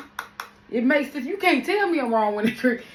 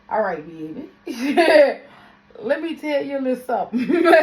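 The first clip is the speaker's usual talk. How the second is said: laughing through a patient comeback; laughing reply; 3 semitones higher, 6 dB louder than usual. Retold or imitated. To people who assume Louisiana means New Orleans, laughing. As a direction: chuckle while setting them straight. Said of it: "I be like".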